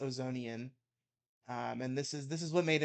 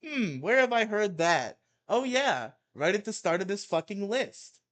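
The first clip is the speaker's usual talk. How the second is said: loud, higher sarcastic jab; mock-sarcastic rant aside; 7 semitones higher, 7 dB louder than usual.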